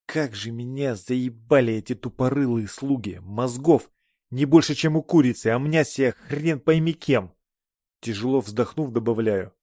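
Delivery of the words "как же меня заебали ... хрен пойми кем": angry goddess rant. Acted. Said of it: "как в описаниях вела себя сама богиня".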